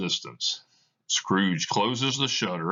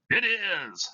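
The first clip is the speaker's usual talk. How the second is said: high, slow, hollow ghost voice warning Scrooge; a chain-bound spirit intoning its doom; Marley's ghost; 12 semitones higher than usual. Acted. Reads Marley's ghost in the play.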